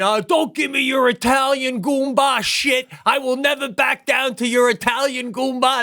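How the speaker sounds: hammed-up angry comeback; mock indignant wife. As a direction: imitate a fed-up wife laying down the law. Acts out wife's angry comeback.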